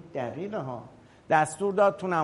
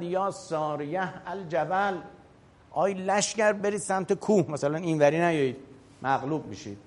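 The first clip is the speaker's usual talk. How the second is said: mock battlefield call; 3 semitones higher than usual. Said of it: "یه نفری داد زد".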